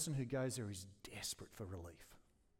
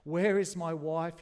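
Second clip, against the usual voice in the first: screamed; 3 semitones higher, 9 dB louder, slower than usual. A narrator's reading. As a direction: scream it out slowly in terror. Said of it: "he screamed".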